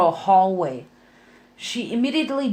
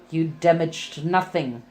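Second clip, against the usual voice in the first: low retort; 5 semitones lower than usual. Acted. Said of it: "Bond retorted".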